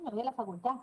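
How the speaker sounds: facultad dicho facultá; d final comida. Shown as a demonstration. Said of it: "Ustedes dicen". (facultá sin d)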